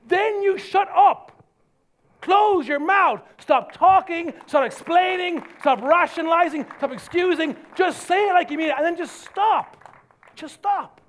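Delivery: high, loud commands; forceful exhortation. Real, not acted. Preacher orders congregation to stop explaining, forceful. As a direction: drive each order home.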